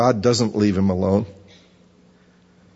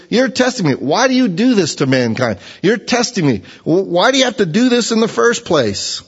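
anguished outcry; 8 semitones higher than usual. Acted. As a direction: cry out to God in anguish. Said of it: "he goes".

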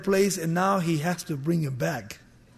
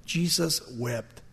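hushed reverence; 5 semitones lower, 7 dB quieter, slower than usual. Shown as a demonstration. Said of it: "The shortest words in the whole Bible".

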